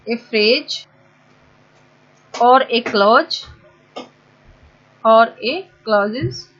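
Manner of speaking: word by word, stretched dictation; dictating slowly for the board. Shown as a demonstration. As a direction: say each chunk slowly while writing. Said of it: "देखो मैं बार बार are के उससे sentence start कर रही हूँ".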